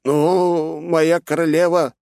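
high, hesitant protest; hesitant objection. Acted. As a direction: try to object timidly. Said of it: "попытался возразить второй советник".

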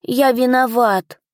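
small teary voice, slow and high; a young dragon on the edge of tears; tearful little dragon. A narrator's reading. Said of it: "чуть не заплакал в ответ маленький император".

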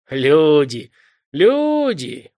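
reproachful. A narrator's reading. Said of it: "укоризненно покачал головой мужик".

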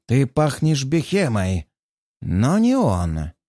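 slow, dropped words, trapped demon. Acted. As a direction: let each word fall slowly. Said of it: "роняет демон".

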